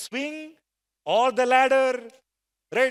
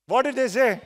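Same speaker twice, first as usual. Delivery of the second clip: a bit louder, coaxing an answer; louder prompt; 3 semitones higher, 4 dB louder than usual. Shown as a demonstration. Trainer prompting the class to reply, slightly louder. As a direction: raise the voice to draw the class in. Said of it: "Loudly, please".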